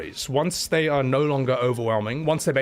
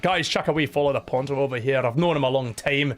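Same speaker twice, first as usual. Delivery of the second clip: put-on Scottish accent. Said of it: "even though I'm doing a Scottish accent".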